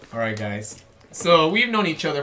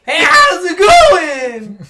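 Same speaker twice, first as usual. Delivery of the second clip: high, shouted mock Wisconsin accent; slow, blaring Wisconsin greeting; 12 semitones higher, 13 dB louder, much slower than usual. Trying Wisconsin for friends, high drawn-out shouted accent.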